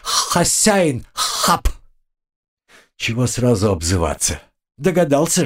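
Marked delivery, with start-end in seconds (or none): 0.0-1.7 cockroach voice. Acted. Pet cockroach talks to its master.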